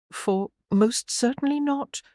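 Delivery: high, sharply offended refusal; indignant lady's retort. A narrator's reading. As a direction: bristle with outrage. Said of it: "Meredith said indignantly".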